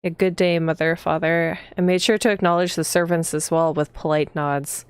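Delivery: even, slightly low storytelling read; read-aloud narration. A narrator's reading. Player reading the heroine's morning greeting aloud, even narration. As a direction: read the game text evenly, unhurried. Reads the game's text aloud.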